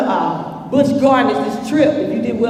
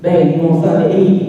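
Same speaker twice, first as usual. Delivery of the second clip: put-on low, louder smooth boy voice; boyfriend's low voice; 6 semitones lower, 4 dB louder than usual. Boyfriend offering his girl food, low and smooth. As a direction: lean in low like a smooth teen. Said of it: "and he's like".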